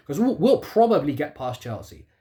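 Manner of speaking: "probably" leaned on, doubtful; stress on probably. Real, not acted. Fan hedging about beating Chelsea, stressing "probably". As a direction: weigh the word "probably" with doubt. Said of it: "Emphasis on probably".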